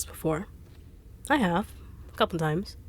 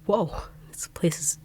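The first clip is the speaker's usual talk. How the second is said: awed whisper. Acted. Awed by the cave.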